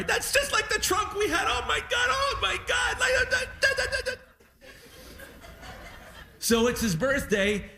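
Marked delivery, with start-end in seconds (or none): 0.0-4.1 mock sobbing old dad, much higher; crying dad. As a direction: squeal it out like your teary father overwhelmed. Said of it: "everything made him cry".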